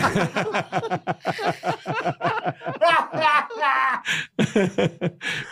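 high, wheezing burst of laughter; long laughing fit. Real, not acted. Co-host cracking up at the naked-chase joke, long high laugh.

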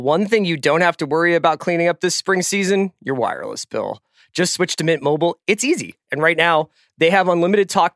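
upbeat sponsor ad read. Acted. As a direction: read it like a podcast ad. Reads a sponsor ad.

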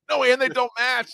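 high, laughing disbelief; giggling that the dub doesn't match. Real, not acted. Laughing about mismatched dubbing.

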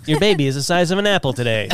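fast, chirpy app-alert voice; app notification voice. Pretend. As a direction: read it like a cheery app.

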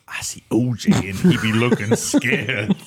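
put-on laughing through a Jamaican accent. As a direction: Jamaican caller voice, cracking up. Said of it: "in this Jamaican accent".

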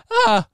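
sudden cracked high yelp; voice cracking up an octave. Real, not acted. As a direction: squeak up into a falsetto shriek. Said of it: "My voice just cracked right there".

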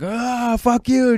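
mock the tough-guy answer he never gave; mock defiance. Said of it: "I'm not gonna go like".

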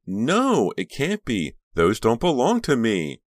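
high, loud, distraught protest; frantic high-pitched denial; wailing denial. A narrator's reading. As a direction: wail it in disbelief. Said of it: "Karina wailed".

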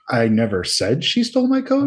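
coat lifted into a question; a puzzled rise on coat; questioning reading. Shown as a demonstration. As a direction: end on coat as if asking. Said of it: "I like".

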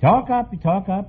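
urging. Real, not acted. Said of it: "How much?".

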